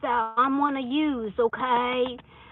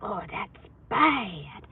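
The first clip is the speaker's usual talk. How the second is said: mock worried thought; much slower than usual. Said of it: "So don't think, like".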